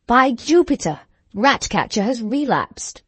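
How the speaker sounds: horrified outburst, slowing at the end; dismayed exclamation. A narrator's reading. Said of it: "he exclaimed".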